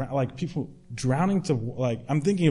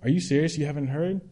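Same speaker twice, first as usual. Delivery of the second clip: mock indignation; 3 semitones higher than usual. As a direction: throw their disbelief back at them. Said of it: "with the same kind of indignation".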